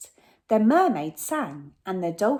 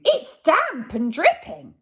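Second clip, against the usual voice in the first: much higher and louder, a squeaky robber; robber Hugh; 8 semitones higher, 6 dB louder than usual. Acted. Robber Hugh spots the singing whale, high and loud. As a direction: pipe it up like an eager crook. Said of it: "said Hugh".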